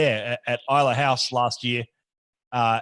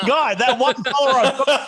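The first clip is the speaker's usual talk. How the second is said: higher, louder, said through laughter; laughing; 11 semitones higher, 5 dB louder than usual. Real, not acted. Teased about his one Twitter follower, laughing. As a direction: laugh along loudly at the teasing.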